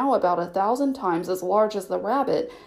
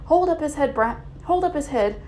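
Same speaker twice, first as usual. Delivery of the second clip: crowd calling; 6 semitones higher than usual. Acted. Crowd tending Bill.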